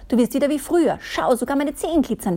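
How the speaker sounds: laughing. Acted. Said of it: "lachte Miss Glitzer".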